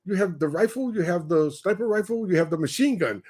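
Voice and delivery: puzzled Kenyan listing it off; Kenyan accent. Retold or imitated. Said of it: "And they says".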